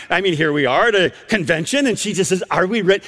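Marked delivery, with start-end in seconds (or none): 2.5-3.0 lightly imitated Romanian accent; a hint of a Romanian grandmother's accent. Grandmother waiting for the elevator, lightly imitated Romanian accent. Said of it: "she says in this unique accent".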